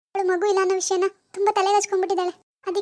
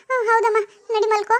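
tearful mother. Acted. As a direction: hold back tears while soothing. Mother breaks down.

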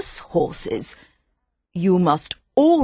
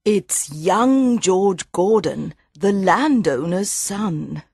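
sad; 8 semitones higher than usual. Acted. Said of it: "says Mother sadly".

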